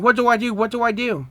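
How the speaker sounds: high-pitched panicky repeated question; freaking out. A narrator's reading. Trey freaking out about the fire Charmander started, high panicky voice. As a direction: read it as mild panic, pitch jumping up. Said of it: "Trey freaking out about the fire".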